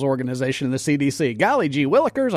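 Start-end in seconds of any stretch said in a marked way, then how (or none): 1.3-2.3 fake wholesome. Mock-innocent wonder at the CDC.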